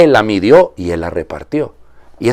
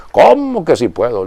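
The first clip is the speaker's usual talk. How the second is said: incredulous question; 5 semitones higher, 4 dB louder than usual. Retold or imitated. Jesus retold, incredulous question.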